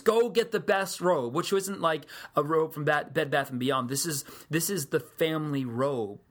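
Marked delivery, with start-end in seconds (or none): 0.0-1.3 slow, louder, higher mock call to the servants; a father calling out happily across the house; joyful yell. Father calling his servants for the robe, joyful mock yell. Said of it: "the father is yelling to his servants".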